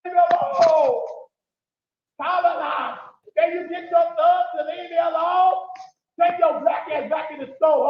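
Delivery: shouted, angry insults; angry yelling. Real, not acted. Man yelling insults at people following him, angry shout. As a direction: yell at them to leave you alone.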